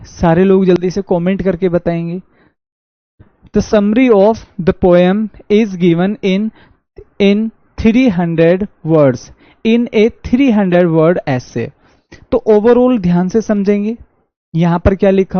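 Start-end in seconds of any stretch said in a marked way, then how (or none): 3.6-11.7 very slow, stretched reading of three; slow dictation. Shown as a demonstration. Teacher rereads the example slowly, stressing three. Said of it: "teacher rereads sentence slowly".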